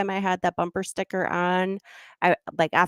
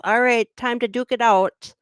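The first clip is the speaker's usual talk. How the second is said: mock tough; 4 semitones higher, 4 dB louder than usual. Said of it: "like, roll up my sleeves".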